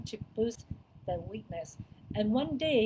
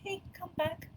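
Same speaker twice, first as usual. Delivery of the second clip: calmly; 8 semitones higher, 4 dB quieter than usual. Shown as a demonstration.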